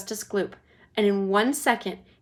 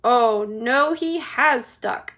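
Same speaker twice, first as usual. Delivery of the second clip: slow, louder dismay; 2 semitones higher, 6 dB louder, much slower than usual. Acted. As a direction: let it sink in. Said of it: "said Charlie".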